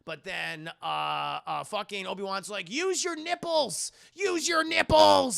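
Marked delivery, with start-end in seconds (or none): 2.7-5.4 high, drawn-out mentor's cry, growing louder; acted urgent shout. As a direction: yell it slowly like a film climax. Obi-Wan calls out advice.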